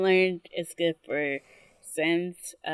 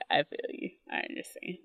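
whispered sympathy; 6 dB quieter, faster than usual. Retold or imitated. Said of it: "And I was like".

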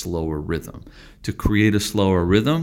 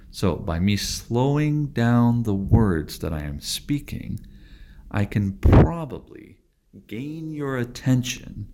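deliberately slow, spaced words; slow each word down to hold attention; slowed speech; 4 semitones higher than usual. Shown as a demonstration. Teacher showing a calm slow pace for students, deliberately slow. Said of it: "just as I'm doing now with altering the speed".

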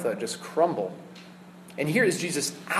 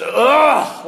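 loud pained guttural ugh; guttural groan; 9 semitones higher, 9 dB louder than usual. Shown as a demonstration. Pastor showing Jesus's outraged snort, loud guttural groan. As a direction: push a painful groan from the throat. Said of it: "this guttural, painful noise".

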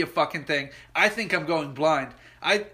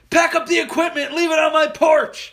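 higher, louder yelled orders; yelling to kids; 10 semitones higher, 7 dB louder than usual. Retold or imitated. Dad to the kids on the field, yelled orders. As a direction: shout orders across the field. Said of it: "he yells to the kids".

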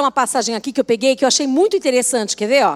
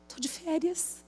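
sleepy mumble; 17 dB quieter than usual. Retold or imitated. Woken by a call, mumbling to herself sleepily. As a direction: mumble it half asleep. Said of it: "Eu falei".

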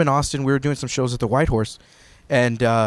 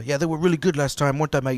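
retold British mate, lightly accented; casual British-accented impression. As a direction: imitate a friendly British pal asking. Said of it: "The British guy".

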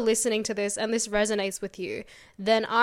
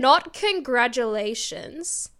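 drawn-out suspense; slower than usual. Real, not acted. Building suspense before the reveal.

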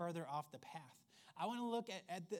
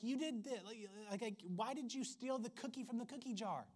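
scolding parent; 5 semitones higher than usual. Retold or imitated. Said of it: "like arguing with your toddler".

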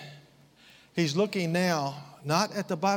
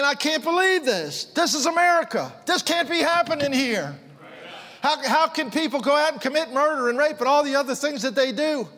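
indignant; 5 semitones higher than usual. Retold or imitated. Preacher retells own outburst at news.

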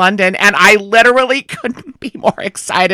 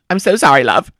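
put-on apology in a copied British accent; imitating the singer's British accent; 6 semitones lower than usual. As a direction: apologise while still slipping into British. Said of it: "you're still doing it".

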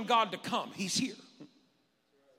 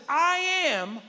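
louder, higher declaration of the name; booming proclamation; 10 semitones higher, 7 dB louder than usual. Acted. Pastor voicing God to Moses, booming proclamation. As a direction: proclaim it with full weight.

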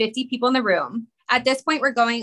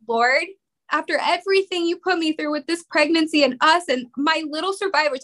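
higher-pitched, tearful plea to God; pleading prayer; 6 semitones higher than usual. Retold or imitated. Mother praying for her baby after all they went through, pleading. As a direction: pray as if close to crying. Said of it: "I remember just praying that".

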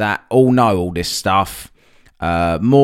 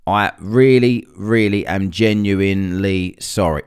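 fake apology; 2 semitones lower than usual. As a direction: apologise without meaning it. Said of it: "I'm not genuine".

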